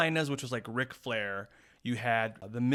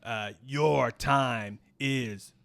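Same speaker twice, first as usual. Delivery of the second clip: villain promo. Acted. Heel promo to foreigners.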